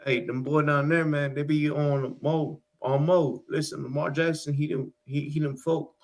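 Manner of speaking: laid-back Baltimore slang delivery; street Baltimore accent. Shown as a demonstration. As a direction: talk like a Baltimore corner regular. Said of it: "I'm gonna try and do, like, street Baltimore".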